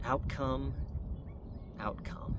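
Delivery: repeated, dropping to a whisper; fading to a whisper. Real, not acted. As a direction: say it then whisper it.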